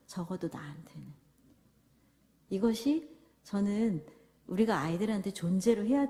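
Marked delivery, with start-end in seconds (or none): 0.1-1.1 unvoiced tender whisper. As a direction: whisper it softly to the child. 부모의 속삭이는 답. (속삭이듯 다정하게)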